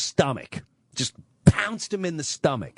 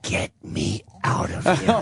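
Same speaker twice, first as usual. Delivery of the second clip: father pleading; 6 semitones lower than usual. Retold or imitated. Father begging the aide.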